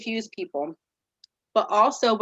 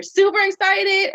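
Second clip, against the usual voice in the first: high, loud burst of excitement; super excited; 11 semitones higher, 6 dB louder than usual. Shown as a demonstration. Teacher demoing tone to students, squealing excitedly. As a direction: pitch jumps way up on super excited. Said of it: "the up and down of your tone".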